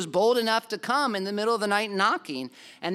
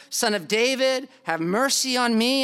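crying out louder; 4 semitones higher, 4 dB louder than usual. Retold or imitated. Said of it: "cry out more".

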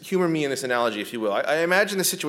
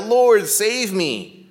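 slow, louder, higher desperate plea; crying out; 8 semitones higher, 7 dB louder, much slower than usual. Acted. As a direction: call out for rescue as you sink. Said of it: "he cried out".

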